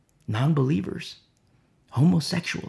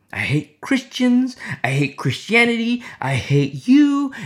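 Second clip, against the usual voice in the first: retold crying outburst; 6 semitones higher than usual. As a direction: act out a man crying like a child, pitched up. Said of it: "crying uncontrollably like a little child".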